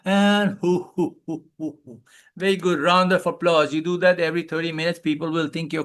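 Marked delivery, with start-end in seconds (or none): 0.6-1.4 belly hoo laugh. Shown as a demonstration. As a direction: finish the medley at the belly. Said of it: "Now do a medley".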